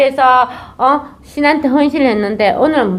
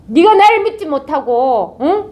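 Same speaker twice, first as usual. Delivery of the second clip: angry god; 5 semitones higher than usual. Acted. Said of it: "그 신이 더 노발해가".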